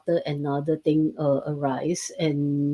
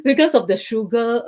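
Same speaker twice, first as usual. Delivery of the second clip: laughing, higher and louder; 7 semitones higher, 7 dB louder than usual. Real, not acted. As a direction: giggle guiltily through it. Laughs at own ice cream habit.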